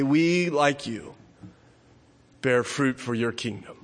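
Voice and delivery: reverent communion prayer; solemn family blessing. Acted. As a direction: lead a hushed mealtime prayer. Communion prayer before meal.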